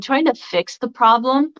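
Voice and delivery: talking round hair in the mouth; words muffled by a strand of hair. Real, not acted. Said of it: "I had hair in my mouth".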